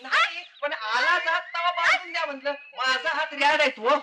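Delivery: high, whiny put-on servant voice; simpleton servant. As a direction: explain innocently in a high servant voice. Plays simple servant before mistress. (भोळ्या नोकराचा बनावट उंच आवाज)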